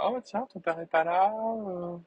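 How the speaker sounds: high mock mum voice, admittedly bad; man doing a woman's voice. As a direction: badly imitate his mother, pitched high. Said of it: "Je m'y mets très mal, ma mère".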